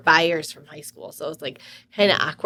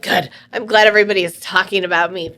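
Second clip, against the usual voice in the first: louder, sarcastic retort; mock-glad and forceful; retold angry comeback; 5 dB louder than usual. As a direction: re-enact a defiant comeback, louder.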